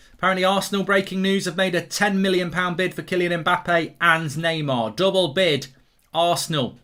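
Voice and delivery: tongue-in-cheek news bulletin; mock breaking news. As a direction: read it out like a breaking transfer story. Mock breaking transfer news read out.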